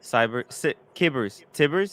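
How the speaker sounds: "Kibbers, Tibbers" tried with hard k, then t; trying out pronunciations. Shown as a demonstration. Host guessing at a chatter's name, trying "Kibbers, Tibbers" aloud. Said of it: "How would you pronounce it?".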